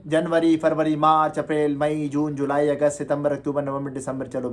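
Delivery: months rattled off the Urdu way; Urdu-style month names. Shown as a demonstration. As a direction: list the months fast, desi style. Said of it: "अब आप किस तरह पढ़ते हैं?".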